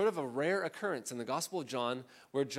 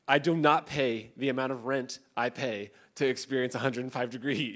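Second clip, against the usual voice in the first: louder, mock-indignant complaint; upset Orange County person; 6 dB louder than usual. Preacher imitating herself complaining about Sunday's heat, mock indignant. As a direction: grumble like a spoiled local about the heat. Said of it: "me being an upset Orange County person".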